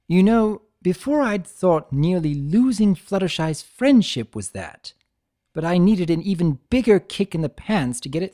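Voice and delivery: playful trickster Discord. Acted. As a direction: tease him like a smug jester. Discord voiced in the story.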